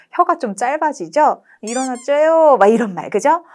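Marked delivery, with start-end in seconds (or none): 1.6-2.6 put-on lisping baby talk to a toddler. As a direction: coo like to a baby. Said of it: "말투가 우리 막 바뀌잖아요". (아기한테 하는 아가체로)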